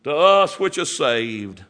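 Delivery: slow, weighty "To us which are saved" with stress on "us"; preacher savoring the scripture, slow emphasis. Acted. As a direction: lean on "us" slowly. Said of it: "Oh, listen to that".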